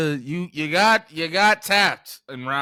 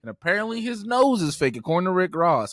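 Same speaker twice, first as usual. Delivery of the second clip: louder, slow mock rant; mock outrage; 5 dB louder than usual. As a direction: drag each word out, indignant. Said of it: "now everybody's like".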